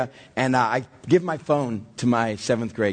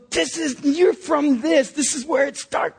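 much higher, slow and half sung; moved; 12 semitones higher than usual. Real, not acted. Dad to daughter at the proposal spot, high, half sung, in awe. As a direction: lift it high and stretch it out, in awe.

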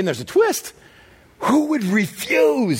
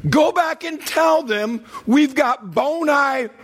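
king's insistent order; 5 semitones higher, slower than usual. Retold or imitated. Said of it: "He's all".

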